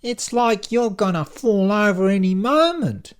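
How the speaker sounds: alarmed, high-pitched yell; loud receptionist shriek of alarm; Lucy. A narrator's reading. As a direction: yell in shock, stretching the words. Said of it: "she gasps and yells out".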